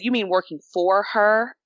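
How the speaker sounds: imitated correcting question, weight on "for"; stress on FOR. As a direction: lean on "for" as a correction. Staffer corrects "with" to "for.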